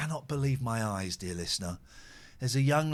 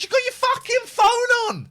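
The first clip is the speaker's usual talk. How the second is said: much higher, louder angry yell; retold shout; 8 dB louder than usual. Driver yells at a man on his phone, retold shout.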